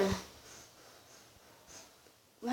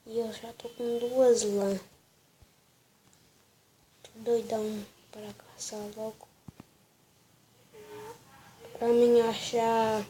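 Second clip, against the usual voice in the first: sore throat voice. Real, not acted. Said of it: "tô com dor de garganta".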